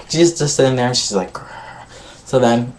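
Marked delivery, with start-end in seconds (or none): 1.3-1.5 short mock growl; little "grr" of pent-up anger; imitated growl. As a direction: growl like someone fuming, in imitation. Imitates Gia sitting there fuming.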